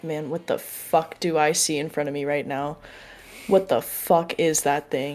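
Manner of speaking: hushed whisper under the breath. In a role-play, a character whispers back to another character who whispered first. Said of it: "I'm gonna whisper back".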